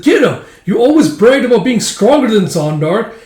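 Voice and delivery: very high, loud frantic yell; shrieking commander. Acted. Commander yelling at hesitant troops, very high shriek. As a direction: screech at the troops to attack.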